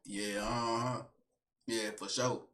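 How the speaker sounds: low, soft sleepy murmur; imitating a drowsy, low reply; half-asleep. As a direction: answer as if nearly dozing off on the phone. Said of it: "I think I was tired".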